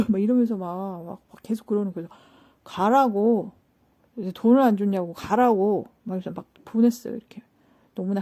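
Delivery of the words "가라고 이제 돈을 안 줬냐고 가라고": louder, insistent retold dismissal; exasperated dismissal. Retelling telling the baffling customer to leave, exasperated. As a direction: push the words out loudly, fed up. Retelling sending the woman away.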